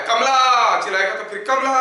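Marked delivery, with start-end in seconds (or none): 0.1-0.8 drawn-out call, pitched higher; mock mountaintop call. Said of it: "पहाड़ की चोटी पे अगर चिल्लाते हैं". 1.5-1.7 imitated echo. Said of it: "वापस आता है".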